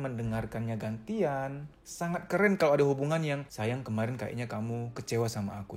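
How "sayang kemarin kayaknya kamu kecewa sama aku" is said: low, soft, coaxing voice; acted caring partner, pitched low and quiet; tender partner. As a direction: gently invite your sweetheart to open up.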